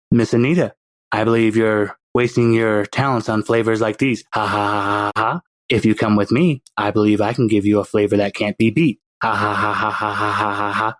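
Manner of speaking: put-on baby villain. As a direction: play the baby as a smug little schemer.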